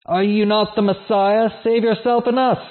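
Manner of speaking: a touch of a criminal's scorn; mild deriding. Acted. Criminal on the cross deriding Jesus, lightly scornful. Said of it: "kept deriding him and saying".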